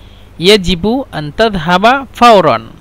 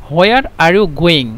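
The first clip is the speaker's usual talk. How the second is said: slow; much slower than usual. Shown as a demonstration. Teacher translating slowly for learners.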